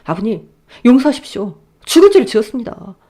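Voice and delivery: desperate begging son-in-law; groveling plea. Acted. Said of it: "싹싹 빌더라고요". (무릎 꿇고 싹싹 비는 사위)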